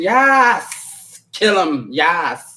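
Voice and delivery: mock gleeful, drawn-out yes; gleeful cheering on. Viewer too happy about killing, gleefully cheering. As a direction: egg them on with relish. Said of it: "You get too happy".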